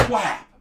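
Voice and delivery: loud, abrupt "whap"; imitated thud. Raccoon hitting the ground, loud imitated smack. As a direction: smack it out as an impact.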